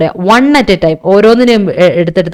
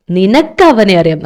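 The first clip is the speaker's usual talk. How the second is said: slow line, leaning on നിനക്ക്; stress on നിനക്ക്; slower than usual. Shown as a demonstration. Teacher shows students which word is important, stressing നിനക്ക്. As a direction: draw out നിനക്ക് for emphasis. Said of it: "നീയാണ് ഇവിടെ important".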